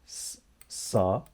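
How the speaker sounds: "sa" sounded out on its own; single syllable. Shown as a demonstration. Teacher breaking the greeting into syllables, "sa" sounded out alone. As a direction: isolate the first syllable, "sa". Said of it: "Let's see the syllables".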